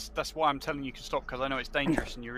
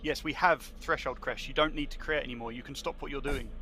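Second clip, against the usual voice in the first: slower and louder. Shown as a demonstration. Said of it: "speaking slower and louder".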